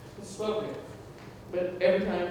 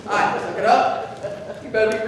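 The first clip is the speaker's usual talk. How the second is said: mom's scolding; 4 dB louder than usual. Retold or imitated. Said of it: "that was my mom".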